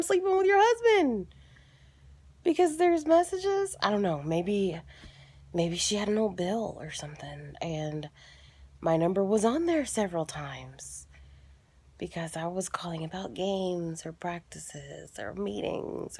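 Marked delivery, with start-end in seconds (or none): 5.5-16.2 soft unvoiced whisper; whispered guess. Real, not acted. Guessing how her number got there, whispered. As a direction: muse it under your breath.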